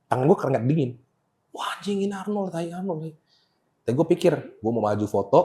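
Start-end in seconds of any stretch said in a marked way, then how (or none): 1.5-3.1 hushed, softer disbelieving curse; awed muttering. Acted. Fan muttering to himself on seeing Arnold, awed. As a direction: mutter it to yourself in stunned awe.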